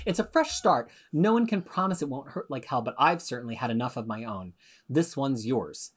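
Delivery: put-on light British accent, slowing at the end; attempted British accent. Podcast host reading Betsy's last lines, attempted British accent. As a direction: read it with a hint of British. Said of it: "Should I do the British accent?".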